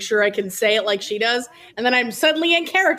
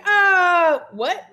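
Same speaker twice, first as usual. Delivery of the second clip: high, louder startled "ah"; mock affronted gasp; 8 semitones higher, 4 dB louder than usual. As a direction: play at being taken aback, half laughing. Acting out Gib's offended reaction.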